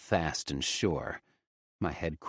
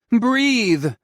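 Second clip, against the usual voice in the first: high, loud urgent plea; pleading; 11 dB louder than usual. A narrator's reading. Ollie pleading with Nikos to breathe. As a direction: urge him to breathe. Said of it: "Ollie pleads".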